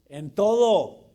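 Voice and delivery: "En todo" shouted, very loud, slow; stress on todo. Real, not acted. Preacher urging fathers to obey in everything, loud slow stress. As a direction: hammer "todo" home. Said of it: "no nada más".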